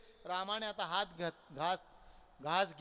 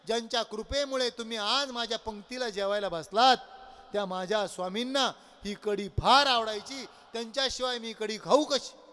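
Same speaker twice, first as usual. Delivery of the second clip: sobbing disciple; 3 semitones higher, 4 dB louder than usual. Acted. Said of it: "स्पंदून स्पंदून रडत असताना".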